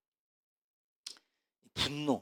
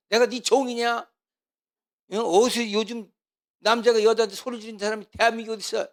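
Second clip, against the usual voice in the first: wife shouting back; 7 semitones higher, 8 dB louder than usual. Retold or imitated. Wife yelling back at her husband in a quarrel, loud and indignant. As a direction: snap back, fed up and furious.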